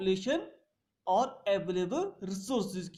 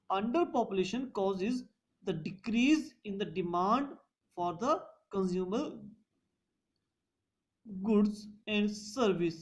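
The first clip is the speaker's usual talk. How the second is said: each phrase spaced out for note-taking; slow dictation; much slower than usual. Shown as a demonstration. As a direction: dictate it word by word so students can write. Teacher dictates a point slowly. (धीमे-धीमे लिखवाना)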